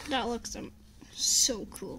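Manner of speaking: softly whispered awe; awed whisper. Real, not acted. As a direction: breathe it out in wonder. Kid awed by card.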